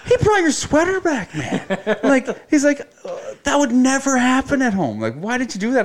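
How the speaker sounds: high, laughing mock voice of a friend; laughing quote. Friend retold with a laugh, high and loud. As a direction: giggle through the friend's words. Retelling friend's amused remark.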